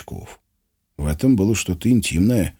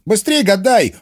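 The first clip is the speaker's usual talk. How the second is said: howling plea; 14 semitones higher, 4 dB louder than usual. A narrator's reading. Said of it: "взвыл Гурько".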